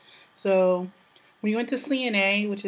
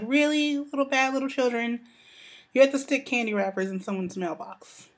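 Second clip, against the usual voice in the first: high, incredulous scold; exasperated scolding; 4 semitones higher than usual. Retold or imitated. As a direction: scold the naughty kids in disbelief. Scolding kids over candy wrappers.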